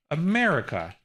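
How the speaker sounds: "America" as a-MER-ica; third-to-last syllable stressed. Shown as a demonstration. Streamer giving chat an example, "America" stressed on MER. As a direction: punch MER in "America", then fall. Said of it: "is the third to last syllable".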